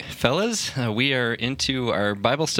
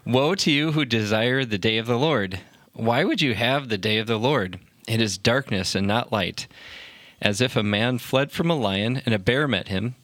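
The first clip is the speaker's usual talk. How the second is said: measured Bible reading aloud; scripture reading. Acted. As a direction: read the prophet's warning to a study group. Reads a Bible passage aloud.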